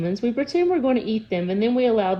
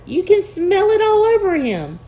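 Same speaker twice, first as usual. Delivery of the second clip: emphatic troll; 11 semitones higher, 6 dB louder than usual. Acted. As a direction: lean in hard on each word. Mard continues excited.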